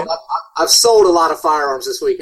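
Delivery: thin, boxy tinny sound; tin can voice. Real, not acted. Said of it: "sounds like he's in a freaking tin can".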